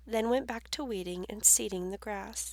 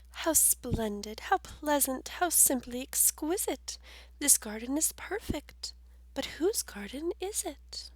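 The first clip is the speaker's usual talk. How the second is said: higher, admiring voice of Mrs McGee; delighted lady; 4 semitones higher than usual. Acted. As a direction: gush over the pretty garden. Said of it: "she never had seen such a beautiful sight".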